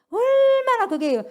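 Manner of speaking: high, loud, slow cry; emphatic outburst. Real, not acted. Preacher cries out how sad regret would be, high and slow. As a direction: stretch the words in lament.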